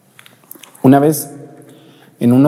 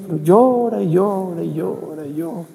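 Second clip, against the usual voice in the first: exasperated nurse; 9 semitones higher than usual. Retold or imitated. Nurse describes endless crying.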